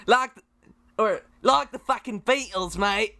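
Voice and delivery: Aussie attempt slipping into Cockney; accidental Cockney accent. Guest attempting Australian slips up, Cockney accent. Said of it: "No, I went Cockney there".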